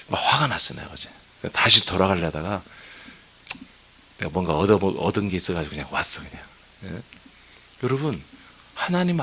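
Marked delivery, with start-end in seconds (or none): none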